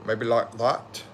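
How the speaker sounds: a hint of mock British accent; British accent impression. Asking a UK viewer how they talk, light British accent. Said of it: "bad for me to impersonate".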